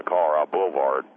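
"Boulevard" squashed to "boo-vard"; slurred boulevard. Acted. Caller naming the street to the host, "Boulevard" slurred to "boo-vard". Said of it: "What is a boulevard?".

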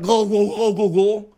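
high gargle-like go go go; imitating gargling. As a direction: gurgle the words like gargling. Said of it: "can't you gargle like a regular human being?".

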